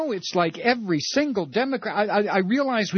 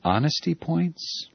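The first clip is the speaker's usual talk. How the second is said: incredulous. Real, not acted. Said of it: "He didn't just say honesty points".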